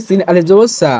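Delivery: সা with its vowel held long; drawn-out vowel. Shown as a demonstration. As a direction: stretch the vowel in সা, pulling it out. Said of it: "একটু টান হবে".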